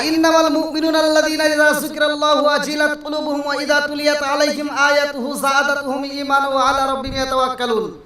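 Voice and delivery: continuous melodic Arabic chant; sustained scriptural chanting; Quran recitation. Acted. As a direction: intone the verse, gradually settling toward the close.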